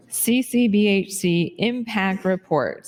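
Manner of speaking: slow words through a yawn; talking mid-yawn, drawn out. Real, not acted. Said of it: "I keep yawning".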